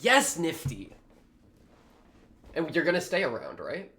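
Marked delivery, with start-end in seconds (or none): 0.0-0.9 excited cheer. Real, not acted. Cheering on a character.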